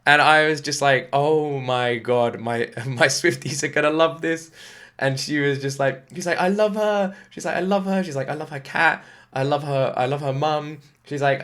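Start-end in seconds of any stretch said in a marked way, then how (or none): 1.1-4.5 bright rising delight with a laugh breaking in; excited. Retold or imitated. Husband reacting to his wife's news about a singer, thrilled and laughing. 6.4-10.8 high, loud imitation of a gushing fan. Husband imitating his wife raving about a singer, high and gushing.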